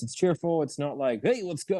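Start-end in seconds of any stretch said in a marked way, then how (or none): 1.2-1.8 higher, pumped-up cheer; mock over-the-top hype man; hammed-up enthusiasm; overhyped. Shown as a demonstration. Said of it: "not like the whacking and waving inflatable tube man".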